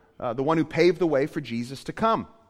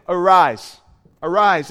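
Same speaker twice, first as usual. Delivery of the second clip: booming, authoritative call; loud command; 10 dB louder, slower than usual. Acted. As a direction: order the dead man to rise. Jesus commanding the dead to rise.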